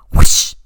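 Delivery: loud whispered whoosh; a burst of imitated swooshing air; whoosh sound effect. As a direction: make a sudden, forceful airy whoosh. Imitating the trash can move.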